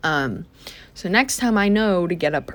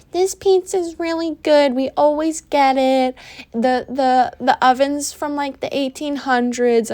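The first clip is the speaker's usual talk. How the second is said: high, bubbly tourist gushing; mock an eager tourist raving; 8 semitones higher than usual. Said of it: "everyone that goes to Yosemite, they go".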